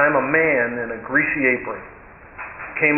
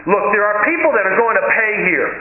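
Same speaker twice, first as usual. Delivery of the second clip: impatient cook raising his voice; getting loud; 6 semitones higher than usual. Retold or imitated. Greasy cook orders the woman to leave, loud and impatient. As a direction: push her to order or get out. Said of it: "he got real loud about it".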